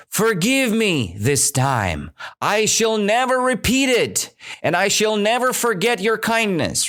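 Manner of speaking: a hint of crying mouse asking forgiveness. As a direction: beg the lion in a small high voice. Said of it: "the mouse continuing crying".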